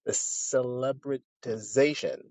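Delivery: "celebritization" said slowly, syllable by syllable; careful pronunciation. Shown as a demonstration. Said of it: "let me see if I can pronounce this".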